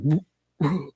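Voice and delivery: mock queasy noise. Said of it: "getting sick to her stomach".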